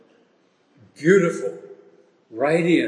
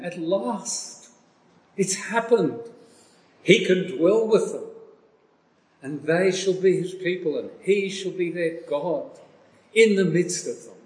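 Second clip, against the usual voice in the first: high, lifted proclamation; loud-voice reading; 5 semitones higher than usual. Shown as a demonstration. Preacher reading the throne's announcement of God dwelling with men, exultant proclamation. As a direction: announce it jubilantly in a raised pitch. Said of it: "We should read this with a loud voice".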